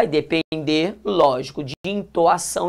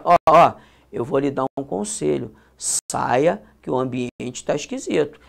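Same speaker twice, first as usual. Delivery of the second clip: friendly advice; 4 semitones lower than usual. Shown as a demonstration. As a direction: advise him gently, voice down, to leave. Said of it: "Isso não é uma ordem". (conselho dado baixinho, em tom amigo)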